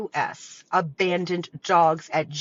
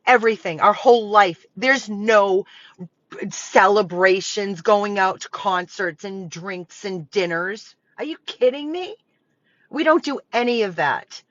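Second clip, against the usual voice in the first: louder, hammering each word with real frustration; real anger; 4 dB louder than usual. Real, not acted. Rescuer pleading with the community, angry and louder. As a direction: let the fury spill out, no holding back. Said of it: "If I sound angry, I am".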